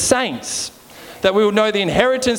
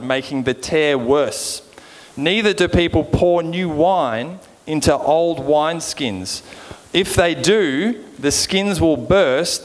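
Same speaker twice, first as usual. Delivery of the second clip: measured, lower-pitched Bible reading; scripture reading; 4 semitones lower than usual. Acted. Preacher reading the parable to the congregation, measured scripture reading. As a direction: read the verses out deliberately, letting phrases settle.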